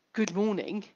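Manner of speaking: softly delivered "Good morning"; understated greeting. Shown as a demonstration. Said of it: "I can say it like that".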